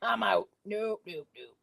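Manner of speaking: mock decline, half-hearted. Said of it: "That's when I do my no voice".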